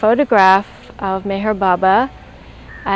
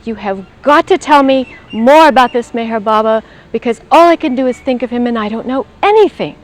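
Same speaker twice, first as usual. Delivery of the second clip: louder and rushed, half-shouting at mother; retold yell; 2 semitones higher, 4 dB louder than usual. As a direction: burst out urgently at her, words tumbling fast. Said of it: "and I yelled at her".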